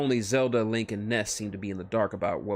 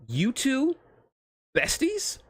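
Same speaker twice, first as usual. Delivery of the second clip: much higher squeaky disbelief; Sonic surprised; 4 dB louder, much slower than usual. Acted. Sonic shocked at the friendship, high squeak.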